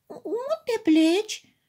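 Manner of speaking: high, slow, scared question; frightened cry. A narrator's reading. The toys, alarmed that the teddy bear will leave, cry out frightened. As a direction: gasp it out in alarm. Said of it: "se speriară celelalte jucării".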